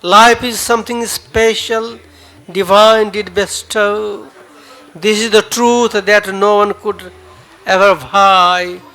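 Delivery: measured dramatic poetry reading; poem recital. Acted. Poet reading his own farewell poem to the audience, solemn.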